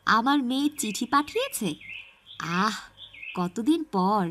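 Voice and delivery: loud, happy thanks to the postman; light up at the news; glad villager. Acted. Rahim thanking the postman for his daughter's letter, glad.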